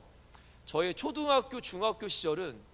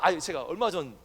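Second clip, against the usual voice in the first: ordinary talk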